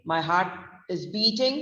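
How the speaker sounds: "heart" with a silent R, like H-A-T; heart like HAT. Shown as a demonstration. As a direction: say "heart" as haat, no R sounded. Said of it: "it sounds like a H A T".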